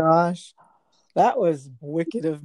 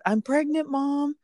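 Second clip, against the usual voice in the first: excited announcement; 9 semitones higher than usual. Retold or imitated. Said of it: "I said".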